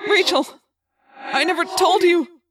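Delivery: high, loud, slowing cry; desperate confession. A narrator's reading. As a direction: call out before it is too late. Last confession to doomed friend.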